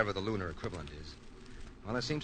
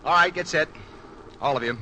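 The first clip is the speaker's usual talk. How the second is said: commanding call; 3 semitones higher, 6 dB louder than usual. Acted. Commander rallying crew before landing.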